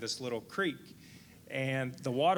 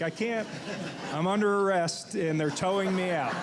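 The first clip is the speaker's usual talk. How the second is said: urgent retold reply; 6 semitones higher, 4 dB louder than usual. Panicked reply while under arrest.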